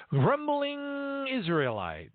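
high, long drawn-out emphasis; exaggerated high drawl; mock grumbling. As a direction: stretch it out high and slow.

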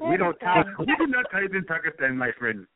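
mock Pakistani accent. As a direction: put on a teasing Pakistani accent. Mock foreigner, others say stop it.

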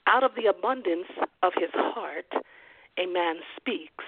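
slowed, weighty restatement; slow emphatic repeat. Shown as a demonstration. Pastor restating the verse to his listeners, slow and weighty. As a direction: let the words land. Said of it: "his mouth speaks".

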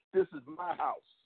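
lightly voiced trash talker claiming the field; taunting opponent. Retelling the opponent's touchdown taunt, mock boast. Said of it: "I heard him score and say".

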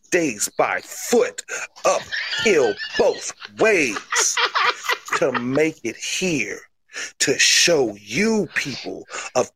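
deliberate mock-wrestler hype; wrestling promo. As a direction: cut a mock promo, drawing out the big phrases. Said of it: "forgot one part of the promo".

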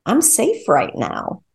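slow, soft reassurance to yourself; softly reassuring yourself that you're safe; soothing self-talk. Shown as a demonstration. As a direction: tell yourself gently, slowly, that you're safe. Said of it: "maybe it's".

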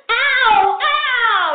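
loud, high cries of pain; yelping kid. Retold or imitated. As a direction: squeal as the brush pulls. Child yelping at hair brushing.

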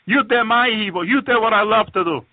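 imitating a triumphant Satan; retold gloating Satan. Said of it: "And Satan will keep laughing".

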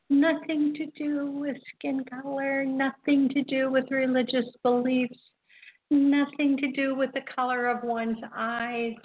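each line starts high on nothing, pressing the point; emphatic list. Real, not acted. Host insisting music unites everyone, emphatic rising list. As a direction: lift and lean on every nothing.

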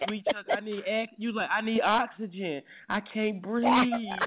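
lightly voiced fan gasping, slow on can't breathe; hammed-up swoon, dragging the last words; mock swooning fan. Host imitating the caller overcome at the concert, mock breathless. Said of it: "You was like".

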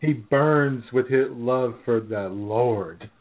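slow, lightly mocked preacher delivery; mock piety. Joking about what the pastor meant, mock-pious. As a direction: draw it out with a hint of sermon.

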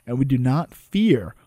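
measured courtroom oration, slowed on key lines; oratory reading. Acted. Reading Malone's speech to the court, measured oration. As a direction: deliver it like a closing argument.

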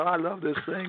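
lightly raspy politician impression; a hint of a president's rasp; Bill Clinton. Shown as a demonstration. Impressionist compares two famous voices, light president impression. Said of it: "he almost sounds like Bill Clinton".

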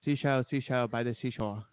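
mock Asian accent. Shown as a demonstration. Co-host requests a test sentence, put-on Asian accent. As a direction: imitate an Asian accent on a tongue-twister. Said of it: "with an Asian accent".

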